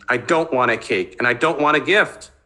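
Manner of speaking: building from tense to loud and fast; rising agitation. Acted. Son refusing his mother's cake and gift, voice rising. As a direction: let the voice climb as he loses control. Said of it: "his voice rose with agitation".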